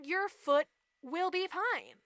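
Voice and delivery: slow, deliberate coaxing; scheming stepmother. Retold or imitated. Mom advises cutting off a toe, slow and measured. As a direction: lay it out slowly, word by word.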